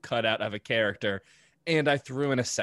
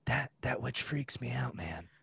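townsperson voice; 9 dB quieter than usual. Acted. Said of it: "One townsperson".

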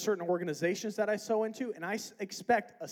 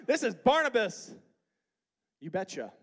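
mock Midwest accent; 6 dB louder than usual. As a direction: put on a playful Midwest accent.

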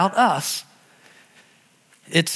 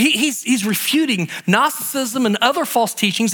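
usual speaking voice

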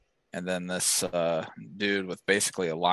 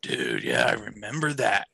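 acted recognition. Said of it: "And you're all like".

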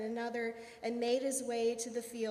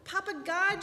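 high, loud call to heaven; shouted complaint; 7 semitones higher, 5 dB louder than usual. A narrator's reading. Woman crying out to Papa God, shouted complaint. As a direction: cry out upward in dismay. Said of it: "she shouted".

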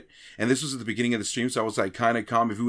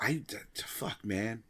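a mild mock stammer, hushed; deflated stammer; 3 semitones lower, 11 dB quieter than usual. A streamer retelling his own stammer after choking mid-run. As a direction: stumble over the words, dropping off to nothing.

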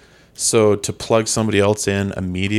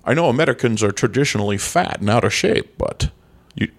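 lightly slurred Scottish star, s turning to sh; comic impression with slushy s sounds; Sean Connery. Promising co-hosts a comeback, hammed-up Connery impression. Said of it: "And Mister Connery".

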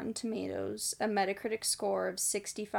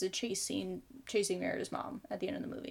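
whispering; 2 semitones lower, 7 dB quieter, faster than usual. Real, not acted. Unvoiced aside about chase scene.

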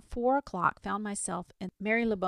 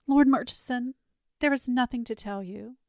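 defiant denial; 5 semitones higher, 6 dB louder than usual. A narrator's reading. Lady faces him, denies.

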